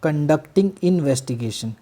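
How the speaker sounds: conducting investigation drawn out very slowly; slow dictation. Shown as a demonstration. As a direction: stretch out conducting investigation for note-taking. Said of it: "police officer".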